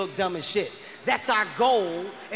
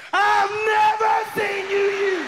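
high, loud shout of accusation; loud as shit; 11 semitones higher, 5 dB louder, slower than usual. Acted. Woman repeating herself in an argument with her man, loud as shit. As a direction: repeat it at a high-pitched shout, case solved. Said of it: "you get loud as shit".

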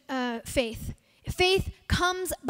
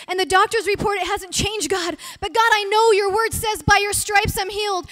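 a higher, louder plea that builds toward a cry; pleading prayer; 4 semitones higher, 4 dB louder than usual. Shown as a demonstration. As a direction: pour out the struggles to God with growing urgency. Demonstrating a prayer under hardship.

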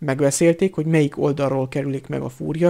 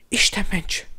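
Hermione; 5 semitones higher than usual. A narrator's reading. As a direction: whisper it in alarm. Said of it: "suttogta rémülten Hermione". (rémült suttogás)

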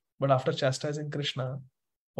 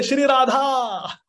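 drawn-out shout, much higher and louder, slow; loud call; 9 semitones higher, 6 dB louder, much slower than usual. Shown as a demonstration. Teacher leading the class in a loud call to Radha, shouted. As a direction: call it out with full force. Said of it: "Loudly say".

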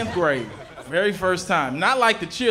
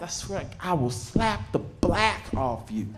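raised-pitch threatening mom tirade; scolding mom; 4 semitones higher than usual. Retold or imitated. Black mom threatening her misbehaving child, scolding. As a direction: lay down a stern warning as an exasperated mother. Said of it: "I grew up with a black mom".

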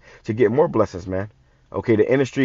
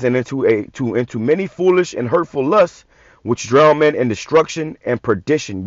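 scripture reading. Acted. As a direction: read it out like holy writ, deliberately. Reads scripture aloud.

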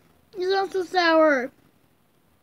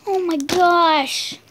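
eating sour candy; 3 semitones higher, 7 dB louder, much slower than usual. Real, not acted.

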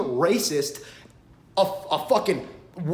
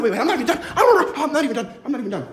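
high and laughing through it; giggling "not done"; 5 semitones higher, 4 dB louder, much faster than usual. Real, not acted. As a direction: laugh while insisting. Laughing, continuing rant.

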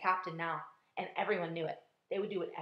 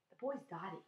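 ladybug voice; 5 semitones higher, 8 dB quieter than usual. A narrator's reading. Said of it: "said the ladybug".

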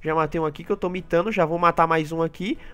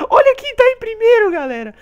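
high, loud boast; gloating; 6 dB louder than usual. Real, not acted. Gamer bragging to viewers about first place. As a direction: show off to the viewers.

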